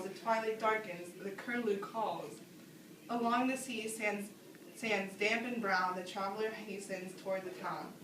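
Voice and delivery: slow, measured verse reading; poem recitation. Acted. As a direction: let each line land slowly.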